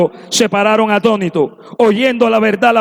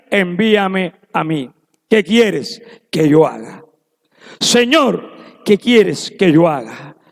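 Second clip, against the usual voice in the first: lower, slow, pleading prayer; lower, slow surrender in prayer; humble prayer; 4 semitones lower, slower than usual. Acted. Preacher voices a humble prayer.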